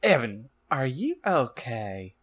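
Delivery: slow, mildly concerned question; drawn-out, lightly worried check-in. Acted. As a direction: ask with a touch of acted concern. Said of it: "asked in a concerted voice".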